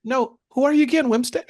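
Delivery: mild mock-cheerful sarcasm; sarcastic farewell. Shown as a demonstration. The speaker sarcastically sends off a prospect who said no. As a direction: wish them poverty with a smile. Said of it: "we're gonna let them go like this".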